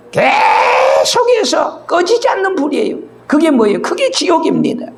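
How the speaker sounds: crying out. Real, not acted. Preacher crying out about hellfire.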